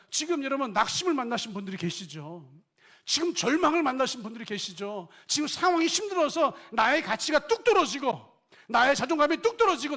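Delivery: loud, high fervent sermon voice; full-force preaching. Acted. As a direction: press the question on the congregation.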